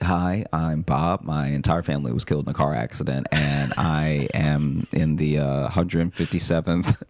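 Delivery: a hint of matter-of-fact oversharer; deadpan speed dater. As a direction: introduce yourself low, rattling off the tragedy.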